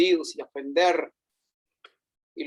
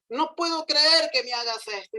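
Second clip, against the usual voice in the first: higher, outraged complaint; indignant ant; 6 semitones higher than usual. Acted. Ant refuses the elephant, higher indignant complaint. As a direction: make it a wronged protest. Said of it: "gritó otra vez".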